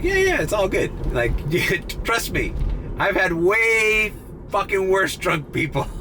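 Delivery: laughing reassurance. Retold or imitated. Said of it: "And I'm like".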